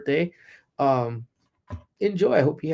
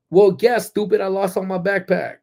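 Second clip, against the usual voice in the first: irritated retort; 6 semitones higher, 4 dB louder than usual. Real, not acted. Retorting to online critics.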